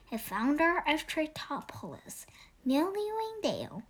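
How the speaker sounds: hushed legend voice; whispered. Acted. Owl child hinting at a legend, whispered. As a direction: breathe it like a secret.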